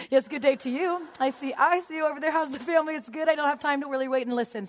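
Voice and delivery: mock pleasantries tossed out while passing; polite brush-off. Churchgoer hiding a bad day, mock-polite small talk.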